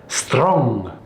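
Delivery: botched Scottish R that comes out Russian; badly faked Scottish "Strong", falling at the end; failed Scottish accent. Shown as a demonstration. Teacher retrying Scottish R sounds, Russian-sounding Scottish accent. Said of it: "That sounds Russian".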